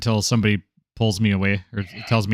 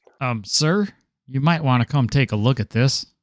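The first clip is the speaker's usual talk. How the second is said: put-on southern US accent; 4 semitones higher than usual. Playing a character calling a superior over to look: Southern accent. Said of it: "I love that Southern accent".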